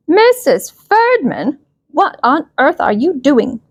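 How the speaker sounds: the principal walks in on something awful; high, drawn-out shocked call. A narrator's reading. Principal catches teacher biting.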